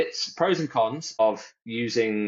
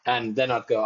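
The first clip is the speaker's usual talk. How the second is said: normal talking voice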